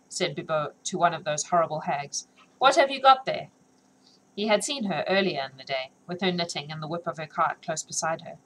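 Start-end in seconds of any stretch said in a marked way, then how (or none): 2.6-3.5 higher, louder rough guard; gruff guard. Acted. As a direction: bark it like a hardened soldier. Bibot questions the hag.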